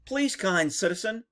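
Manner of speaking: sugary mock pleading; hammed-up polite begging; mock polite plea. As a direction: plead sweetly, mocking the timid cop. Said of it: "mocking overly polite cop".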